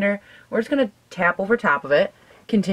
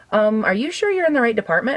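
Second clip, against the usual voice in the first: counselor quote; 6 semitones higher than usual. Retold or imitated. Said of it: "she goes".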